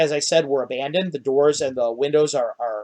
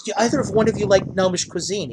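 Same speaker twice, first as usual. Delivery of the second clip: higher, keen little gnome voice; eager gnome host; 6 semitones higher, faster than usual. Acted. Gnome host offering his cuisine, eagerly higher.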